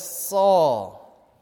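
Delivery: Jesus calling Saul, first call. Retold or imitated. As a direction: call out Saul with gentle authority. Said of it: "And Jesus says".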